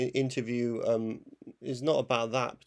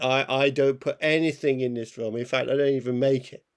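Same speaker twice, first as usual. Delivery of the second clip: louder mock director disowning his film; insistent impression of an auteur, louder; Werner Herzog; 4 dB louder than usual. Critic imitates director talking about his film, mock insistence. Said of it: "uh, Herzog again".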